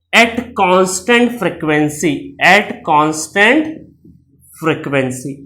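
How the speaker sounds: very slow, word by word; slow dictating pace; slow dictation. Shown as a demonstration. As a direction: spell it out slowly for notes. Teacher dictating definition slowly.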